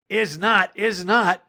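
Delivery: high, bratty mock contradiction; squeaky childish back-talk; defiant kid. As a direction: mimic a small boy digging in. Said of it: "Harold looks at her and goes".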